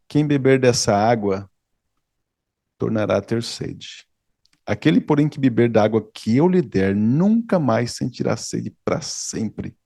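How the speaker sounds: slow, measured reading of Jesus' words; solemn scripture reading. Acted. Preacher reading Jesus' answer to the Samaritan woman, slow and solemn. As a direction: draw out each phrase like a sacred promise.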